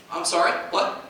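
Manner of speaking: ordinary delivery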